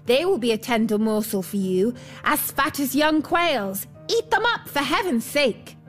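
high, desperate storybook begging; terrified pleading. A narrator's reading. Dwarf begging the bear to spare his life, terrified pleading. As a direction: plead high, peaking on each cry for mercy. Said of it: "Then he cried in terror".

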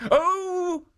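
a kind guardian warning her; kindly statue's voice. A narrator's reading. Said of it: "said Jitso".

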